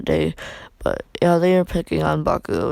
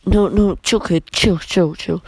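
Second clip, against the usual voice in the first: louder, rapid repeated plea; urgent placating; 2 semitones higher, 5 dB louder than usual. Acted. All Might calming a threatening Izuku, urgent pleading. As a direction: hurriedly talk the kid down.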